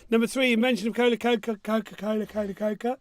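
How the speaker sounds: fast, tangled words with a gap in the teeth; missing front teeth. Real, not acted. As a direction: stumble over "Coca-Cola" with missing teeth. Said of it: "Do you wanna put your teeth back in?".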